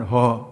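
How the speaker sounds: "ha" said loudly with mouth wide open. Shown as a demonstration. Teacher showing students how not to say the letter, open-mouthed "ha". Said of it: "open your mouth and".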